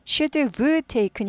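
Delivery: should have taken slowly, have like of; reduced should have. Shown as a demonstration. Teacher models the reduced form slowly. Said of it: "of처럼 들립니다".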